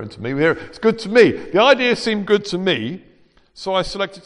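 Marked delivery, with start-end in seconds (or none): 0.5-3.0 higher, pointed stress on "me". Shown as a demonstration. Preacher exposing whose idea it was, stressing "me". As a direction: lean hard on "me", pitched up.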